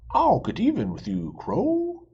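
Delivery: loud, rising threat at Crow; angry shout. Acted. Fox threatens Crow, loud angry shout. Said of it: "he shouted".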